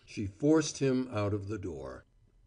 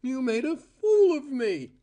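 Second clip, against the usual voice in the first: higher and louder, cutting; shrill voice; 5 dB louder than usual. A narrator's reading. Cora striking Val, a high shrill accusation. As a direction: shriek the words at him. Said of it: "Her voice rose shrilly".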